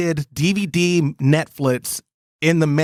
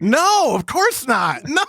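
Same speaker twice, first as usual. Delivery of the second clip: emphatic refusal; 9 semitones higher, slower than usual. Real, not acted. Refusing to admit he was wrong.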